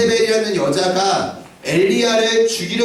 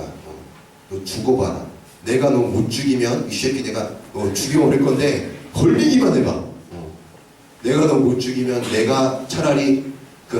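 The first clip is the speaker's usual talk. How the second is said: low menacing threat; 5 semitones lower than usual. Retold or imitated. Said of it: "엘리야가 딱 찍혀버리니까".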